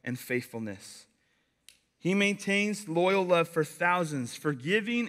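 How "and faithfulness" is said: slow, weighty reading. Shown as a demonstration. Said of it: "slow to anger".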